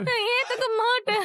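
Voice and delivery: tearful refusal, voice wet with sobs; a jilted girl refusing through her sobs; crying. Acted. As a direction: say it through tears. Aparna crying over betrayal.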